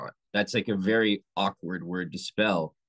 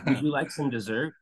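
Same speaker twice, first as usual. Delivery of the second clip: lighter, higher friendly offer; 5 semitones higher than usual. Shown as a demonstration. Offering a friend dessert, kindly lilting. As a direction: sell dessert as a kind offer. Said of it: "a lot different than me saying".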